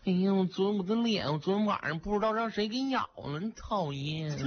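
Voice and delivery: woman complains about her bitten face; lightly whiny girl. Acted. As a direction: pout it out, playfully sulky. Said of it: "摸着脸沮丧地说".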